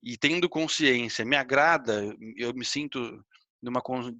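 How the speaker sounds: ordinary talk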